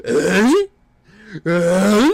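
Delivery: short, loud goofy grunt, rising; mocking goofy vocal tic; Adam Sandler. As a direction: imitate a comic's dopey noise. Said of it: "It just sounds like fucking".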